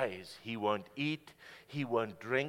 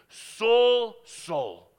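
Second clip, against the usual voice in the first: voice from heaven; 7 semitones higher, 11 dB louder than usual. A narrator's reading. The voice of Jesus calls to Saul in a booming echo. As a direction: call his name like a voice from the light. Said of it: "He hears this voice saying to him".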